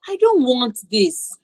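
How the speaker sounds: slow, firm refusal; confident refusal. Shown as a demonstration. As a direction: say it slowly and confidently. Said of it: "being confident in saying".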